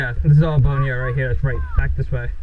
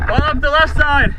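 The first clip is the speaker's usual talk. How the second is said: higher, slow carrying shout; calling out; 11 semitones higher than usual. Real, not acted. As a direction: draw the call out across the field. Calling orders during airsoft push.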